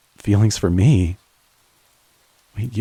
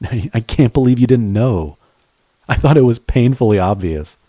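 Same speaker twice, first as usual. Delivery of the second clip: laughing; 3 semitones higher, 3 dB louder than usual. Acted. Laughing disbelief.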